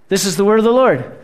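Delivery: brisk, set church response; a preacher closes the reading with the set formula; quick liturgical formula. Acted. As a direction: rattle off the familiar closing line.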